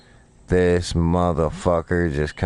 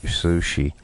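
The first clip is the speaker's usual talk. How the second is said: playful echo. Real, not acted. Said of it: "turned him into sushi".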